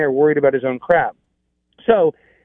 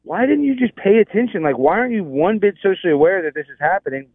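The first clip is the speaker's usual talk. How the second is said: exasperated, raised-pitch reproach; retold anger; 5 semitones higher than usual. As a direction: replay telling off a careless helper. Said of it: "so I got mad at Jimmy".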